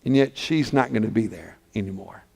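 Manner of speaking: low, soft, heavy narration; sorrowful hush. A narrator's reading. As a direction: drop low and grieve quietly. Preacher drops to sorrowful hush.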